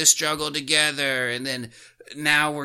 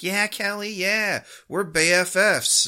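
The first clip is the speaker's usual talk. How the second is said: cheery Sid; 7 semitones higher than usual. Retold or imitated. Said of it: "just being like".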